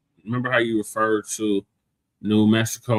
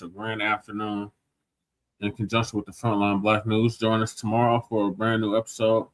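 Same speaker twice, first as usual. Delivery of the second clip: podcast outro; 3 dB quieter than usual. Acted. Host reads show outro.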